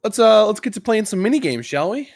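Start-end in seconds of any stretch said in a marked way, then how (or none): none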